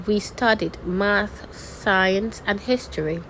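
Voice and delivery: "math" and "science" held up, "history" closes; listing intonation. Shown as a demonstration. Teacher demonstrating a list, items open until "history". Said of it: "for listing items".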